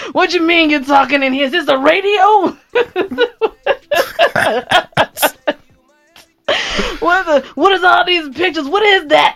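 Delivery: put-on old man character. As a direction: play a cranky old-timer baffled by the mic. S0 plays old man bit.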